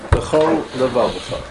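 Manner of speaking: B'chol levavcha with a slow gap between the two l sounds; pause between the lameds. Shown as a demonstration. Rabbi demonstrating to his class, B'chol levavcha with a clear break. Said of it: "make a hefsek between the two lammets".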